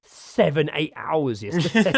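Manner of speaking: wife scolding. Retold or imitated. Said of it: "She's like".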